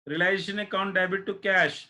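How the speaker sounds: each word drawn out very slowly for copying; slow dictation. Shown as a demonstration. Teacher dictating the journal entry to online students, very slow and deliberate. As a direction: dictate it slowly so they can write.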